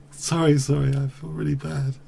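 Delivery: sorry while laughing; laughing apology. Real, not acted. Streamer apologising to viewers while laughing. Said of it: "I don't know why I'm laughing".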